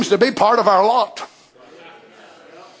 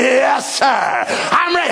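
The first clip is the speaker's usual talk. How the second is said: eager yes sir; 3 semitones higher, slower than usual. Retold or imitated. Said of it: "I said".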